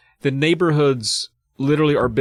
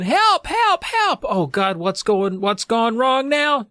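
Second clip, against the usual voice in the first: high, hammed-up cries for help; very high-pitched frantic old neighbor; panicked neighbor; 11 semitones higher, slower than usual. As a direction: squeal in mock panic. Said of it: "runs up to Eddie in a panic".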